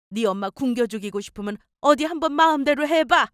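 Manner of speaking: put-on nagging, reproachful older mother; lightly voiced mother laying on the guilt; scolding mother-in-law. Mother-in-law berates her son over chores, reproachful scolding.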